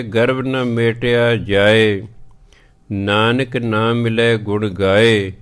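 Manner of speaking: slow measured reading of gurbani; scripture recitation. Acted. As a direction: recite it slowly and clearly. (ਹੌਲੀ ਪਾਠ ਵਾਲੀ ਆਵਾਜ਼)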